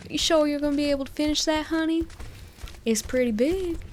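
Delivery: put-on sweet Southern diner waitress teasing a kid; Southern accent. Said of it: "in a southern accent".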